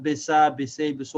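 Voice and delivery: bisa, bise, biso with a vowel after the s; wrong added vowel. Shown as a demonstration. Teacher shows what to avoid, bisa, bise, biso with added vowels. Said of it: "seen does not have a vowel".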